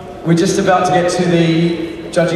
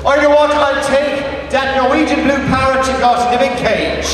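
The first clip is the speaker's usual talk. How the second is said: put-on Irish accent; 4 semitones higher than usual. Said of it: "He was Irish, not Scottish".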